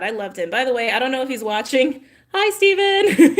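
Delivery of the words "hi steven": high, laughing hi to a viewer; giggly hello. Real, not acted. Vlogger giggling a hello to a viewer she likes. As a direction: giggle it out shyly.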